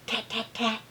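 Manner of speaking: short, dry woodpecker-like taps; bird tapping. Acted. Teacher reading bird sounds aloud, short soft tapping.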